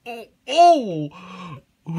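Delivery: loud high oh then laughing; shocked laughter. Real, not acted. Shocked by the chapter title, loud laughing. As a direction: shriek and crack up.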